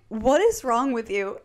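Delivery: slow, understated reproach; mildly fed-up, measured question; retold exasperation. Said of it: "Stefan is just like".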